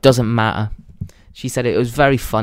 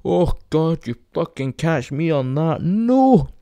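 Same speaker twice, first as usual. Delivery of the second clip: imitating dad refusing rides, whooping high between phrases; drawn-out hammed-up "oh no" with hooting laughs; dad's weird character; 4 semitones higher, slower than usual. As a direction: play a silly, protesting dad, voice swooping up. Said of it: "And he's like".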